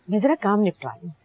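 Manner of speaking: ordinary delivery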